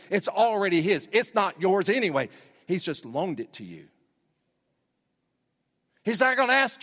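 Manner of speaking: preaching at full force. Acted. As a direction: drive it home from the pulpit. Preacher builds to climax.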